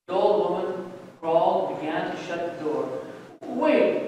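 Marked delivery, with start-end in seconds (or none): 3.4-4.1 raised, higher urgent plea; crying out. A narrator's reading. Jacob to the woman shutting the door, crying out. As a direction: call out to stop someone leaving. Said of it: "Jacob cried".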